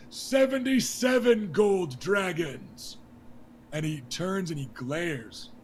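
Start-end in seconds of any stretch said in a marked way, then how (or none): 0.1-3.0 high, loud and slowed royal announcement; King Robert announcing. Acted. King Robert naming the melee prize to the crowd, loud and slow. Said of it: "And then he goes".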